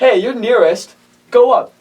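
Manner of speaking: acted-out group telling someone to go; retold order. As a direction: send a friend upstairs, loud and brisk. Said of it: "They're like".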